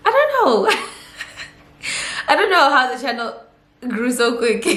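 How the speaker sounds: high-pitched, laughing disbelief; baffled, with laughter breaking through; laughing bafflement. Real, not acted. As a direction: squeal it, then laugh through the rest. Laughs at viewer's question about growth.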